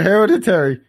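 "hereditary" as hera-di-TERRY, with every syllable sounded; extra syllable. Real, not acted. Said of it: "I wanna put an extra syllable".

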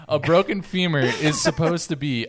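fast, loud indignant rant; comically angry. Real, not acted. Podcaster ranting to co-hosts about broken femurs, worked up and indignant. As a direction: rush in, worked up over the absurdity. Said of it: "'cause I'm angry".

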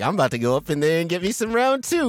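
eager high voice. Retold or imitated. Voicing eager hero.

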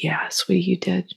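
put-on soft, whispered reply to a child; hushed whisper. Mother whispering to her daughter at bedtime. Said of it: "We were in quiet".

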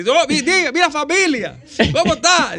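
the mystery caller greets the host in a booming voice; deep guttural caller. Retold or imitated. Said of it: "con esa voz así, gutural".

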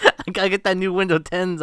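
light mock Southern Belle accent. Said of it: "Southern Belle accent".

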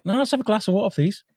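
light, high-pitched imitation of a guest; retold guest's reply. Retells celebrity guest's reply.

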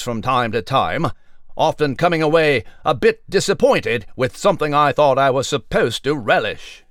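crisp mock newscaster delivery; news read. Mouse Nigel reporting to listeners, in a pompous newsreader voice. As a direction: present it like a formal evening bulletin.

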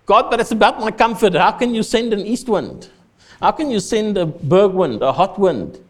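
whining Jonah. Acted. Preacher voicing complaining Jonah.

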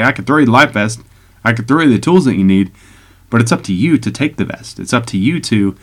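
winded from talking so long; short of breath, pushing words out. Real, not acted. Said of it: "Sorry, I got out of breath".

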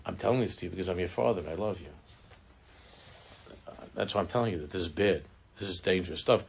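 fatherly speech. Retold or imitated. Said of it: "giving this fatherly speech".

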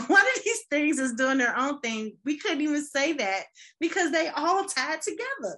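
put-on sing-song it like a children's TV host; Sesame Street sing-song. Playing a kids' show host about city blocks, high sing-song. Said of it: "if this was Sesame Street".

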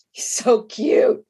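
breathy whispered aside; whispered swoon. Retold or imitated. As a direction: whisper it like a private crush. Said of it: "And I was like".

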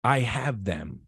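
calm him like a loving father; understated gentle voice of God. Retold or imitated. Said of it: "gently looked at me and said".

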